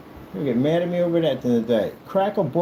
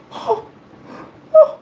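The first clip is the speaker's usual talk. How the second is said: shocked gasp; 8 dB louder than usual. Acted. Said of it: "And you turn, you're like".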